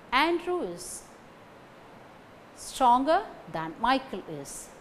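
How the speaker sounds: "Andrew", "stronger", "Michael" stressed, with a pause after "is". Shown as a demonstration. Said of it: "These three words carry stress".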